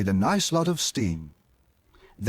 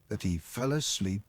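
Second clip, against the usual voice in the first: much lower, much softer, dying away; drowsy fade; 6 semitones lower, 10 dB quieter than usual. A narrator's reading. Narrator ending the bedtime story, fading to a hush. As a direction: let the voice drift off to sleep.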